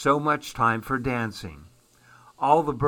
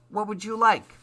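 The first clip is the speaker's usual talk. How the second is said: cheerful frog voice; 7 semitones higher than usual. Acted. Happy Frog serves customers.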